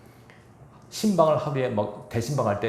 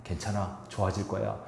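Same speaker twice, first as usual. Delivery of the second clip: 격려하는 말; 4 dB quieter than usual. Shown as a demonstration. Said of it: "격려와 힘을 주는 말".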